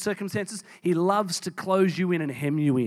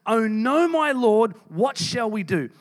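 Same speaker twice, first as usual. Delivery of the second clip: alarmed servant; 3 semitones higher, slower than usual. Acted. Servant's cry on seeing the army.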